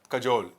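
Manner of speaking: "कजोल" with a short first vowel; "कजोल", short first syllable, long second; correct pronunciation. Shown as a demonstration. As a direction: say "कजोल" with a quick "ka". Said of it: "इसका सही pronunciation है कजोल".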